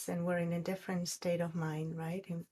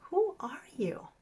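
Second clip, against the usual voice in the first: whispered question; 8 semitones higher than usual. Acted. Little prince asks the roses.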